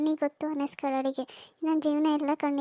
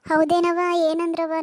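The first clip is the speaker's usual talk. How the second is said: surprised exclaim; 7 dB louder than usual. Acted. Daughter reacts to news.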